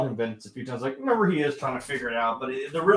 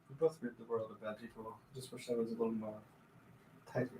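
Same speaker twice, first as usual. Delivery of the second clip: soft, low movie-villain impression; creepy villain; 3 semitones lower, 16 dB quieter than usual. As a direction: quote the villain quietly and creepily. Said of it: "that's kinda creepy".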